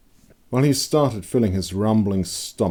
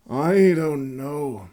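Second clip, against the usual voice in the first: hesitant Conrad; 8 semitones higher, much slower than usual. A narrator's reading. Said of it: "scratching his chin".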